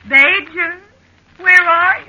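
high, loud anxious call. Acted. Wife searching for husband, calling out high. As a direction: shout for him across the sand.

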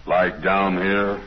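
slow, low demonstration voice. Shown as a demonstration. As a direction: draw it out down in the low register. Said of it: "Get down lower".

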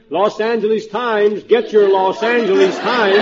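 slow drawn-out newsboy call; newsboy hollering. Acted. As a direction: call out papers like a street newsboy. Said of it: "this guy is hollering".

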